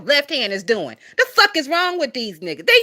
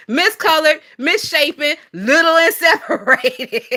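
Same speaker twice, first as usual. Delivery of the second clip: higher, laughing through the list; laughing repeat; 5 semitones higher than usual. Shown as a demonstration. Repeating her list about the kids' teeth, laughing. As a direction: reel the list off again, cracking up. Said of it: "And that's how them little silver teeth children shit be".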